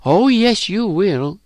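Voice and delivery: high, knowing taunt; taunting assurance. A narrator's reading. Elizabeth contradicts Phyllis, assuring with a taunt. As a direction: assure her teasingly, high-pitched. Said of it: "Elizabeth assured her".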